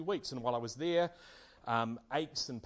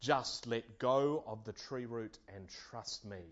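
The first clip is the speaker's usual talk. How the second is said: mighty voice; slower than usual. Acted. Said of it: "the mighty voice again replies".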